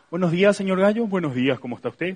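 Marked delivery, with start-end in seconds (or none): 1.0-2.1 low, polished radio announcer voice. Retelling a job interview, in radio announcer voice. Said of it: "Púselo ya mi voz de relator de radio".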